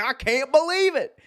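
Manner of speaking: high-pitched mock incredulity; imitating disbelief. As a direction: act out a stunned fan. Retold fan's outraged reaction.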